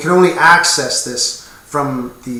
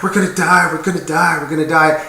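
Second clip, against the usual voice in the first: mock panic; 3 semitones higher, 3 dB louder, faster than usual. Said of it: "freaking out, going".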